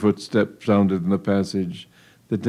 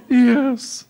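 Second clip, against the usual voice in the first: high, firm, louder yes; defiant yes; 4 dB louder than usual. Acted. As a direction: answer him boldly. Daughter's firm answer to father.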